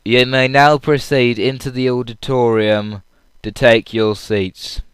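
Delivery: lightly voiced theatre announcer, slow and drawn out; loudspeaker announcement. Audience member mimics the call to take seats, slow announcer voice. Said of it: "all we hear over the loudspeaker".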